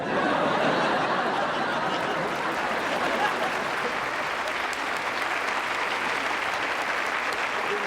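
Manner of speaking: wheezing, helpless laughter; long laughing fit. Real, not acted. Grandma cracking up at her own bedtime story ending. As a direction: laugh till you run out of air.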